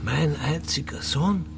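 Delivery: slow, hushed and imploring; tender plea. Acted. Father calming his son at gunpoint, slow and hushed. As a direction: soothe him like a frightened child.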